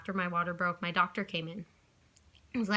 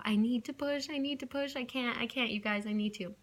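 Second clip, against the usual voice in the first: desperate plea; 4 semitones higher than usual. Retold or imitated. Repeating push plea in labor.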